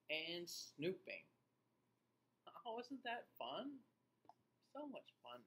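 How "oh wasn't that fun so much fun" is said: excited. Real, not acted. Excited wrap-up to kids.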